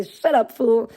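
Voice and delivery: light tough-guy bark; Mister T impression. Streamer quoting Mister T, mild gruff bark. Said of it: "He'd say".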